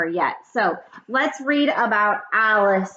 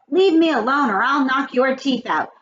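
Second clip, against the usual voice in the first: higher, firmly voiced warning; mild threat; 5 semitones higher than usual. A narrator's reading. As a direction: warn off a teaser, lightly acted. Girl threatens boys who tease her.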